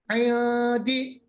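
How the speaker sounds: عین دی with the n half hidden, not nasal; ikhfa hidden nun. Shown as a demonstration. Teacher models ikhfa on عین دی. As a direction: say عین دی with the n kept in the mouth. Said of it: "ہونٹوں کو کھول کے رکھے".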